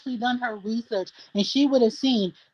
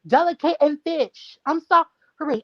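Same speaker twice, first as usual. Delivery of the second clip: higher-pitched, sarcastic apology; dainty and delicate; 5 semitones higher than usual. Real, not acted. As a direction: protest in a high, dainty natural voice. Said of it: "my voice is dainty and delicate".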